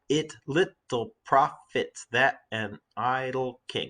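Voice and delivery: slow, vowels brought out in "It little profits that an idle king"; slowed reading so the repeated i sounds in "It little profits that an idle king" ring; showing assonance. Shown as a demonstration. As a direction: linger on the short i of It, little, king and long i of idle. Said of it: "You can hear it".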